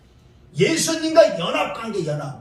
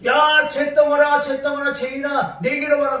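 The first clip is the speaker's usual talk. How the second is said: voicing Jesus calling; 3 semitones higher, 4 dB louder than usual. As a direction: summon the lump of sin. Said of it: "예수님 나를 부르시다고".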